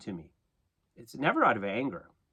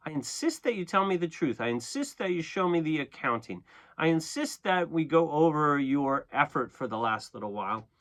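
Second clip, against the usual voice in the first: firm, measured demand for accountability; insistent. Acted. Modelling pushback on someone withholding truth, insistent. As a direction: press each demand insistently. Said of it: "You could be insistent here".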